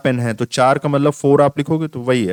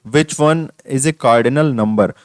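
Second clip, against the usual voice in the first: question read aloud; much slower than usual. Acted.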